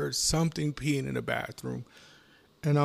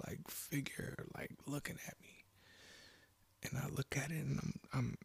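soft, half-whispered and halting; breathy, hesitant dread; haunted hush; 9 dB quieter than usual. Acted. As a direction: drop to a hush as the figure appears. Describing a frightening dark figure.

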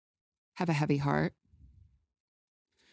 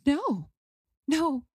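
high, hammed-up heartbreak with a laugh breaking through; half-laughing mock lament; mock heartbroken wail; 10 semitones higher than usual. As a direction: play the tragedy for laughs. Crying answer to wait staff.

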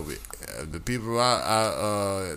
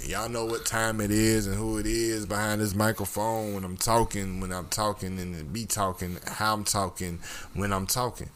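smooth DJ intro. Acted. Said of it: "How's that for an introduction?".

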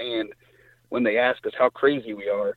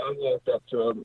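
normal talking voice

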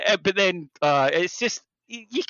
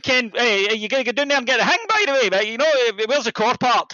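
higher, louder, fast broad Ayrshire; rapid Ayrshire; 8 semitones higher, 4 dB louder than usual. Retold or imitated. Man talking with his family, in rapid broad Ayrshire. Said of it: "rapid Ayrshire mode".

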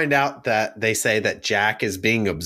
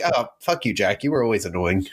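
mock dismissive; 6 semitones lower, faster than usual. Acts out family dismissing Jack.

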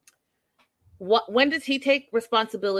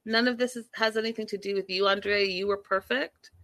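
sarcastic retort; 3 semitones higher than usual. Retold or imitated. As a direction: drag it out sarcastically at Andre. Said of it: "I was like".

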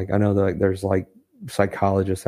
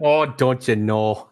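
put-on Canadian accent; 2 semitones higher, 5 dB louder, slower than usual. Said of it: "answer a question in a Canadian accent".

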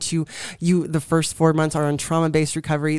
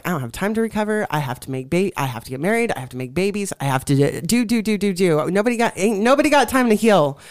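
mock frantic busyness; 3 semitones higher, faster than usual. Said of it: "said everybody in the ministry".

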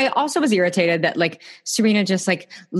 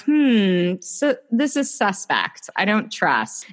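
suspicious; slower than usual. Retold or imitated. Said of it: "I'm like".

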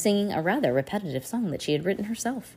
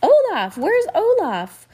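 much higher, louder call, slow; 7 dB louder, slower than usual. A narrator's reading. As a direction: shout for him from the next room. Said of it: "voices called out".

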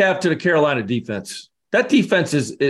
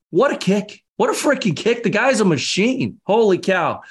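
excited; 6 semitones higher than usual. Real, not acted. Raving about the kick.

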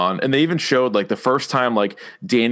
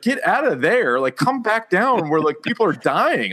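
mock urgent calling out; 7 semitones higher than usual. Viewer yelling at dragon riders to come down, mock urgent. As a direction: call them back in exasperated, high-pitched disbelief.

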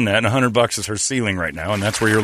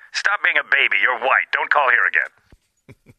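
phone menu voice; 3 semitones higher than usual. Acted.

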